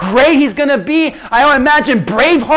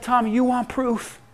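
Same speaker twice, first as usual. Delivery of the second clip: reassuring; 5 dB quieter than usual. Acted. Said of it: "He said".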